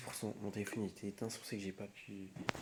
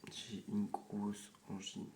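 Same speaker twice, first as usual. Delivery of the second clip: slow, strained sore-throat voice; swollen tonsils voice; much slower than usual. Real, not acted. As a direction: ease the words out over swollen tonsils. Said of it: "Ça me fait trop mal à la gorge".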